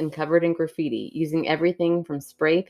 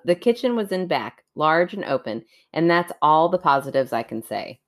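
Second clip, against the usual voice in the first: story narration. Acted. Reads a creepy story aloud.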